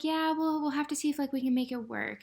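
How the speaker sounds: imitating a lukewarm, vague brush-off; wishy-washy. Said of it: "He started being wishy-washy".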